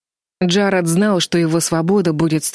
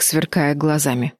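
ordinary delivery

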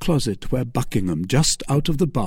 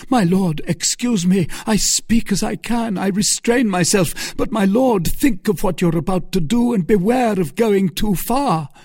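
much higher, louder, barely held back; strained pleading; 10 semitones higher, 4 dB louder than usual. Acted. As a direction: plead while fighting to keep control. Felton barely restraining himself.

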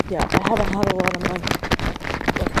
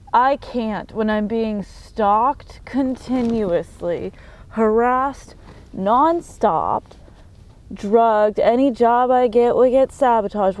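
louder, building outrage, each word pushed; angry rant; 2 semitones higher, 3 dB louder, slower than usual. Real, not acted. Ranting at viewers about being stalked, building anger. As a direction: protest it harder with every item.

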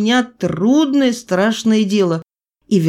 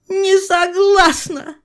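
much higher, slow mother's refusal; mother refuses the operation sharply, higher and slow; 13 semitones higher, much slower than usual. A narrator's reading. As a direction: refuse him in a distinct woman's voice, cutting. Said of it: "резко сказала мать".

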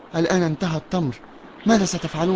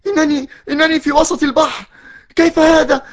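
higher and louder with every line, stammering; startled awake in the middle of the sea, rising panic; shocked alarm; 8 semitones higher, 4 dB louder than usual. Acted. Wakes suddenly in the sea. (دهشة وفزع متصاعد)

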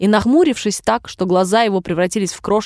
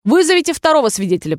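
brisk order; 6 semitones higher, faster than usual. A narrator's reading. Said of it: "приказал король".

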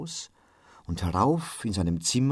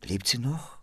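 broken words; 4 semitones higher, 6 dB quieter than usual. A narrator's reading. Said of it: "nichts wie gebrochene Worte".

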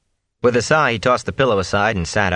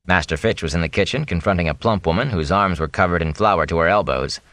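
usual speaking voice

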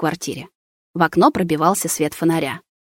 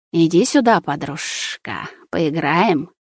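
creepy coaxing lure; slower than usual. Acted. Possessed friend lures narrator.

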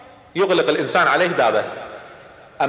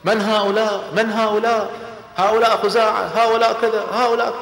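anxious questioning; 5 semitones higher than usual. Retold or imitated. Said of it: "وقلب أبو سفيان انخلع".

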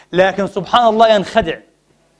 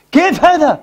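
preacher's rising outrage; indignant outcry; 8 semitones higher than usual. Real, not acted. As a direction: throw كيف هذا out in protest. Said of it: "يا إخواني، كيف هذا؟".

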